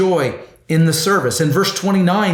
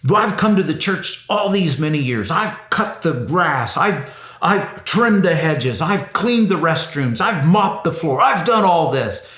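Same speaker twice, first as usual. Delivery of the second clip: grumbling churchgoer; 3 semitones higher than usual. Retold or imitated. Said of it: "someone who says".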